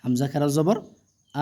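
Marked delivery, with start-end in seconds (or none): 1.4-1.4 long, steadily held vowel; drawn-out vowel. Shown as a demonstration. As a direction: stretch the vowel out evenly. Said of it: "একালিফ করে কিন্তু টেনে পড়তে হবে". (টেনে পড়া, লম্বা স্বর)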